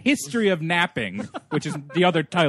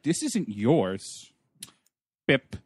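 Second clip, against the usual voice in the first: scolding; 3 semitones lower, much slower than usual. Retold or imitated. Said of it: "Johnny Depp starts scolding Timothy Hutton".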